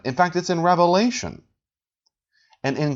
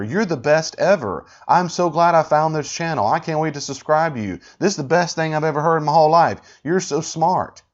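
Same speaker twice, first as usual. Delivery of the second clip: mock gushing praise; 2 semitones higher than usual. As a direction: imitate adoring commenters, slightly animated. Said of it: "laud and praise her".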